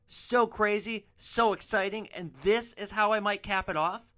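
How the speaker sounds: mock a passenger hyping his own wild life; grandiose, excited bragging; self-hyping boast. Drunk passenger brags, acted.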